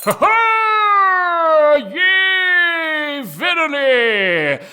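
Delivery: loud, high gloating cry of victory; triumphant crowing. Acted. Sackcloth gloating at the king over the game, loud and high. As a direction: crow over the winning move.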